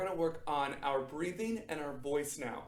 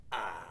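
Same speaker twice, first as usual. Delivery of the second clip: open lion ah; 9 semitones lower than usual. Shown as a demonstration. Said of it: "Lion face".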